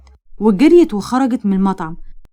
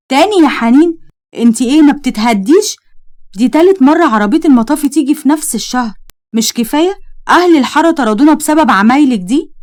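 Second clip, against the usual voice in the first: raised, fed-up telling-off; higher and louder, scolding a reckless cousin; exasperated scolding; 3 semitones higher, 3 dB louder than usual. Acted. Farid to Haneen after the fire truck, exasperated scolding.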